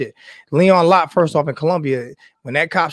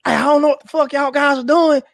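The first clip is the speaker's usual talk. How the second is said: put-on Southern white boy voice; 11 semitones higher, 3 dB louder than usual. To Klan men at the State House, a high mock Southern white boy voice. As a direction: play a rowdy Southern white boy cursing out the crowd. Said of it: "my little Southern voice, my little Southern white boy".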